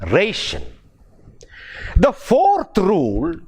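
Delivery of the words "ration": "ration" with a strong "ra" and light ending; RAY-shun, for "ration"; stress on first syllable. Shown as a demonstration. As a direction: lean on "ra" in "ration". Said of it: "so the word is pronounced as".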